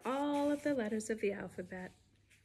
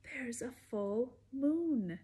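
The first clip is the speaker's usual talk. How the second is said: sing-song storybook read-aloud; lively read-aloud rhyme voice; reading to children. Acted. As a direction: bounce the rhymes for little listeners. Reads picture book to kids.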